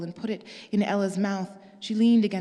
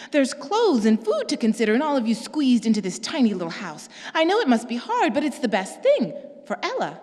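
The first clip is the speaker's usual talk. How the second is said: higher, louder insistent sister; Pearl's voice; 4 semitones higher, 5 dB louder than usual. Acted. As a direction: press her point, pitched up.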